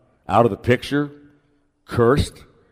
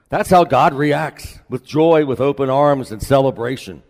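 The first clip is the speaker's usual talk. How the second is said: joyful; 6 semitones higher, 4 dB louder than usual. Acted. Preacher proclaiming God's joy.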